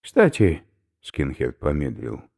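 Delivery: he is about to throw up; queasy skinhead. Acted. Oberführer warns professor he will vomit, loud and gruff.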